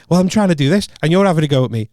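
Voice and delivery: mock arguing back at a complainer; retold defensive protest. Acts the referee arguing back.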